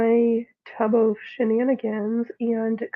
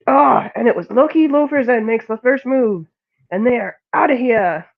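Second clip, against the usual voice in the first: mock race call; 7 dB louder than usual. Announcing cat fight.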